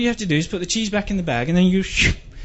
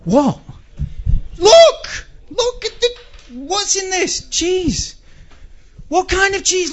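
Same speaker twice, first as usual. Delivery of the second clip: frantic yelling; 7 semitones higher, slower than usual. Acted. Yelling at flatmates over hard cheese, high frantic screech. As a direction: shriek at them in outrage.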